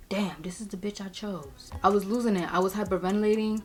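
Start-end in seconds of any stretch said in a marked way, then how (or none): 0.1-1.7 hushed, near-whispered aside; soft whispery disbelief; boyfriend's stunned thought. Retold or imitated. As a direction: voice his dismay under the breath. Boyfriend's silent stunned look voiced.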